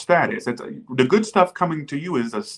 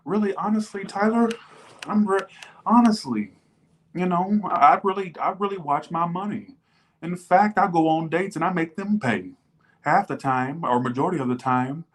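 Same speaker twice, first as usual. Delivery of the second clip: higher voice, the client making excuses to Tyler; defensive client voice; 5 semitones higher than usual. Pretend. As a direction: play the client justifying her spending. Imagined client answers Tyler.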